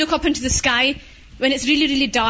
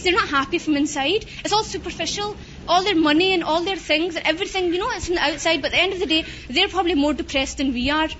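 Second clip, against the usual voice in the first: sister's advice; 4 semitones higher than usual. Retold or imitated. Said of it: "my sister used to say to me".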